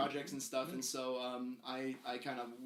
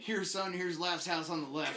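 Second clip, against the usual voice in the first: casual parent offering a movie; dad voice; 3 semitones higher, 3 dB louder than usual. Retold or imitated. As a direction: hand it over like a relaxed dad. Parents voiced handing horror movies.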